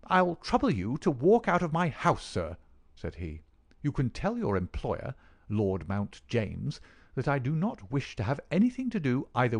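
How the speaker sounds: furious. Acted. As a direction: throw them out in a rage. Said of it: "crimson with fury".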